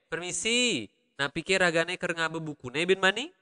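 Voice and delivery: Balinese sentence melody, lifting at the end; Balinese accent. Shown as a demonstration. Teacher repeating the sample question, Balinese accent. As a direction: demonstrate a Balinese accent for learners. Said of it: "that is the accent".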